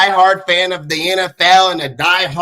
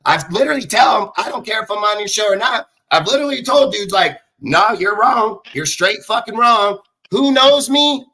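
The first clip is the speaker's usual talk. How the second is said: raised, heated voice; angry rant; 3 semitones higher than usual. Real, not acted. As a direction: call them out, pitch climbing. Ranting at his critics.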